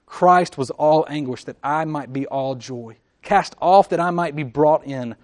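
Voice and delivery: loud, swelling prayer read over the church; fervent prayer. Acted. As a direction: pray it out, full voice. Prays aloud for church.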